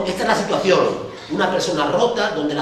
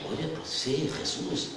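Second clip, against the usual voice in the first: eager believer; 6 semitones higher, 4 dB louder than usual. Retold or imitated. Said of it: "vienen al Señor y dicen".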